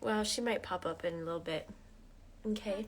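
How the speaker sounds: gently calm the little one; reassuring. Real, not acted. Soothing child, much softer.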